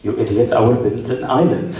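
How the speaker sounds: lightly voiced Arab client; Arab accent. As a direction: put on a mild Arab accent. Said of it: "An Arab guy would be like".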